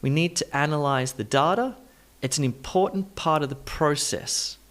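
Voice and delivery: weak "to", "the", "of" reduced to uh; rhythmic, with "data" ending in uh; schwa added. Shown as a demonstration. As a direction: stress "analyze" and "important", shrink small words to schwa. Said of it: "Let's add in the schwa sound".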